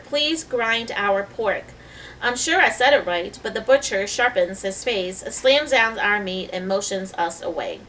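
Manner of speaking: reading a novel aloud to a class; measured read-aloud voice for children; calm storyteller reading to the class; story reading. Acted.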